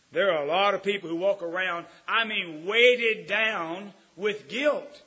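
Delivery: loud, slow, high preacher's cry; booming sermon delivery; full-force preaching. Acted. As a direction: preach it out to the pews. Preaching, scripture.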